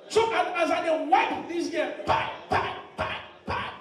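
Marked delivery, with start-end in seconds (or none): 2.1-3.7 toneless popping bangs; percussive, voiceless bursts; imitated smacks. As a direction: mimic sharp smacking hits with the mouth. Imitating slaps while telling the story.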